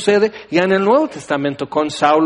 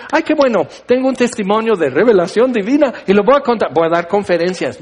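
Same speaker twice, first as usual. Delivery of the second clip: mock boastful prophet; 3 semitones higher, faster than usual. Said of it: "No dice".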